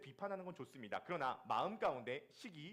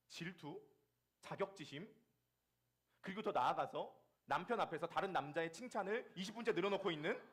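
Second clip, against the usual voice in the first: usual speaking voice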